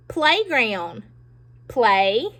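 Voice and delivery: "Playground" broken into "Play" and "ground"; split into two parts. Shown as a demonstration. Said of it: "Let's do this one together".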